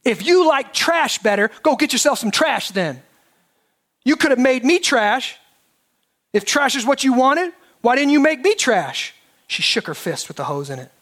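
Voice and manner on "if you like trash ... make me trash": mild hammed-up outrage; indignant rant. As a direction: pitch climbing high in grievance. Ruby ranting at God.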